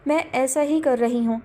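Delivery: ordinary delivery, nothing marked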